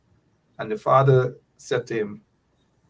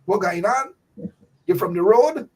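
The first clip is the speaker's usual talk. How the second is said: scolding elder; 5 semitones higher than usual. Retold or imitated. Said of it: "you got to speak proper".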